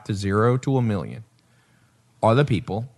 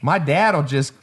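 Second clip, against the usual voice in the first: higher, lightly country neighbour voice; country accent imitation; 3 semitones higher, slower than usual. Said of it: "he used to talk like this".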